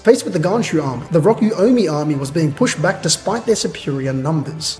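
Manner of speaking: measured narrator reading; story narration. A narrator's reading. Reader narrating the battle to chat, measured narration. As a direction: read it out as a story recap.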